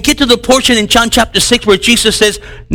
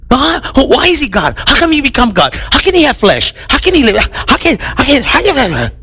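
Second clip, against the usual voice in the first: higher, puzzled questioning; doubting skeptic; 5 semitones higher than usual. Retold or imitated. Unbeliever questioning the preacher, higher puzzled voice.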